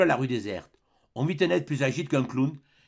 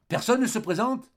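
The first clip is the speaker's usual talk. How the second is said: calling out; 9 semitones higher than usual. A narrator's reading. Leader calling for a volunteer, high ringing challenge. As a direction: throw the question out as a dare. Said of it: "répétait son appel".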